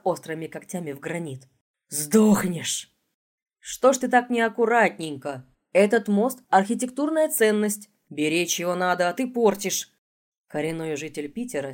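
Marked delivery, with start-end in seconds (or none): 1.9-2.9 growling death threat; snarling threat. Acted. Monster threatens. 3.6-9.9 louder, higher scolding tone; tut-tut like a scolding uncle. Acted. Scolding damage to bridge.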